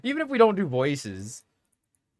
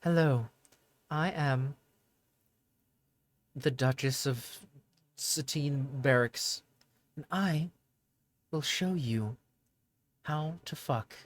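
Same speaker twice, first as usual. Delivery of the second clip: slow, soft British duchess with a very airy voice; hoity-toity British lady, drawn out with long pauses; airy British woman; 5 dB quieter, slower than usual. Shown as a demonstration. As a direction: put on an airy, British girl voice. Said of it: "put the British accent and, like, a very airy voice".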